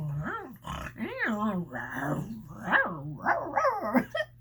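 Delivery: mock growling snarl noise; silly dog snarl. Shown as a demonstration. Reader imitating snarling dogs, mock growl. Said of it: "I know I looked silly".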